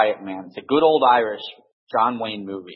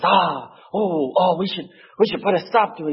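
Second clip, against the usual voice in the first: lightly voiced old priest; 6 semitones higher than usual. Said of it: "And he says".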